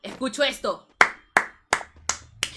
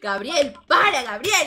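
mock girl's protest; 2 semitones higher, 8 dB louder, slower than usual. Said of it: "le decía a la chica".

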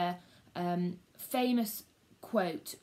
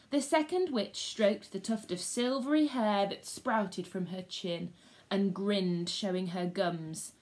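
lively read-aloud storyteller; story reading for schoolchildren; story narration. A narrator's reading. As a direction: tell it to the class like a gripping tale.

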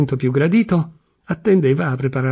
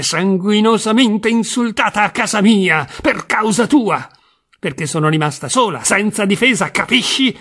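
high-pitched, indignant outburst building up; outraged wife; 3 semitones higher than usual. Acted. Wife tells husband of the insult, indignant and high. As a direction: pour out the insult she suffered, rising in outrage. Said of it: "ruppe in un pianto stridulo".

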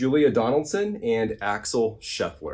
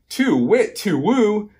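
high, swooping storybook owl call; singsong owl cry; owl hoot; 11 semitones higher, 5 dB louder, slower than usual. A narrator's reading. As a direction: hoot it out in rising and falling swoops. Owl hoots and flees.

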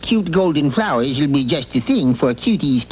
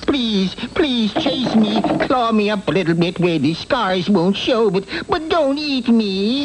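high, frantic pleading; begging for my life; 3 semitones higher than usual. Acted. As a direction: beg the beast not to eat you. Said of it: "the old man pleaded for his life".

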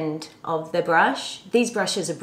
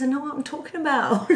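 put-on higher, laughing English accent; 6 semitones higher, faster than usual. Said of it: "that's my English accent".

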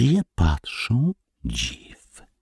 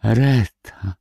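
high, drawn-out frightened call; scared child crying out for help; sudden terror; 7 semitones higher, slower than usual. A narrator's reading. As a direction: call for daddy in alarm. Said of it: "woła Wojtuś w nagłym przerażeniu".

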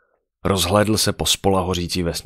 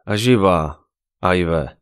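a touch of menace, louder; hard, terrible voice; 6 dB louder, much slower than usual. Acted. Necromancer threatening the pregnant woman, hard terrible voice. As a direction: turn the childish voice cold and frightening. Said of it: "ale tvrdým a strašným".

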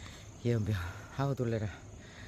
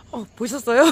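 shaken excited; 7 semitones higher, 9 dB louder than usual. Real, not acted. Just saw a snake.

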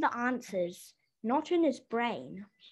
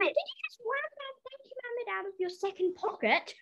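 mock shock; 9 semitones higher, 3 dB quieter, faster than usual. Joking accusation in mock shock.

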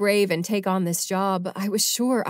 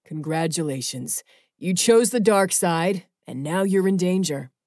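sarcastic; 3 dB louder than usual. A narrator's reading. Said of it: "Jamin started a slow clap".

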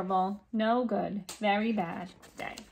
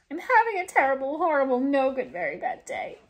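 wailing complaint; 3 semitones higher than usual. Acted. Complaining loudly to everybody.

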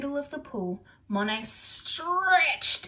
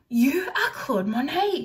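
high, loud amazed discovery; gasped realisation; 5 semitones higher, 6 dB louder than usual. Acted. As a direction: breathe it out in amazement. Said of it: "she gasped".

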